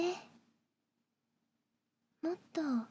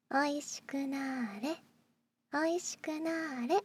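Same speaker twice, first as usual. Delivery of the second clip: sugary maid cafe greeting. Acted. Casting maid cafe spell.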